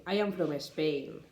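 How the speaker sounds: Spanish learner adding an E before the S, "I am from Spain" said as "I am from Espain"; Spanish accent. Shown as a demonstration. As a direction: imitate a Spanish speaker's extra E before "Spain". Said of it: "So they say".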